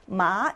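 마 dipping low, then rising; third tone. Shown as a demonstration. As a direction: sink each 마 to the bottom and bring it back up. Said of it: "삼성으로 읽으면".

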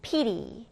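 "pity" stressed on PI; stress on first syllable. Shown as a demonstration. English teacher introducing the next word, "pity" stressed on its first syllable. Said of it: "첫 음절에 강세를 두고".

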